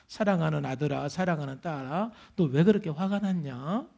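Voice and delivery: put-on low, soft call to beloved children; imitating a loving father, hushed and low; tender fatherly address.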